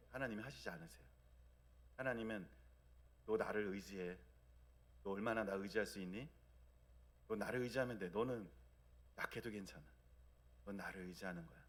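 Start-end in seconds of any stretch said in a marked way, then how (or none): 3.2-11.6 soft, tender reassurance, growing much quieter; gentle voice of God. Retold or imitated. Preacher voicing God softly comforting his people. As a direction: reassure a weak child that leaning on you is enough. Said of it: "이렇게 말씀하세요".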